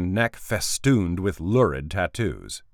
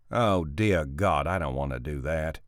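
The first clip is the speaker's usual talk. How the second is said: weary groan; 3 semitones lower than usual. Acted. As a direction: sigh it out in dread. Boss dreads recording audiobook.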